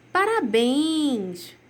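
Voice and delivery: slow, drawn-out cheer; congratulating. Shown as a demonstration. Teacher reading an exclamation to pupils, a slow, drawn-out cheer. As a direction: stretch the word out as you cheer. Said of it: "o emoji com a carinha de parabéns".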